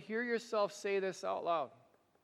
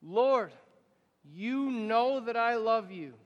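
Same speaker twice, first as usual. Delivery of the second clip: louder, slowed declaration; loud slow affirmation; 3 semitones higher, 7 dB louder, slower than usual. Shown as a demonstration. Congregation's third reply to Jesus, loud and slow. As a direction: answer out loud with weight. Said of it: "And answer out loud".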